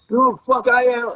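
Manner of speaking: high, heated demand; indignant diva. Retold or imitated. Girlfriend demanding respect, high indignant snap. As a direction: play the furious superstar. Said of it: "she got so angry".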